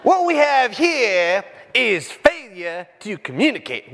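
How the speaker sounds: a hint of the stern prison captain, slow; slow movie-villain delivery; movie captain impression. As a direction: drawl the famous line slowly. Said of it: "Best line in the movie is what?".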